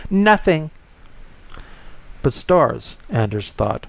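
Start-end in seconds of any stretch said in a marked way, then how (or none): 0.1-0.7 high-pitched, restrained scream; mild scream, pitched high. A narrator's reading. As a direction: cry out with pitch shot up. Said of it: "the voice within his head screamed".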